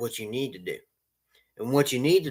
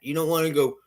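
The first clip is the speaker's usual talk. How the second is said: usual speaking voice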